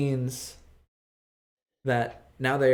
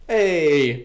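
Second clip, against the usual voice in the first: cheery greeting; 3 semitones higher, 8 dB louder than usual. Real, not acted.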